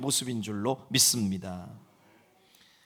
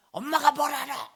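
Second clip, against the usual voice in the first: put-on higher, louder sassy teen retort; mock a know-it-all teen; teen talking back to mom, sassy; bratty teenager; 10 semitones higher, 4 dB louder than usual. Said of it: "뭐 이러면서".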